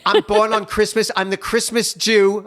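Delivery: high, loud, gushing friend voice; imitating bubbly introduction. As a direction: mimic an eager friend introducing herself. Imitating wife's friend introducing herself.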